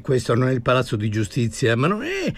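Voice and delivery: richiesta acuta e appassionata; Buscaino indignato. Acted. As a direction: chiede giustizia con forza. Buscaino argomenta. (Buscaino al commendatore, voce acuta e accorata)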